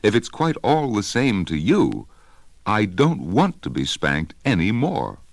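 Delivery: put-on a small child pouring out his troubles; earnest elephant's child. Child tells of his relatives.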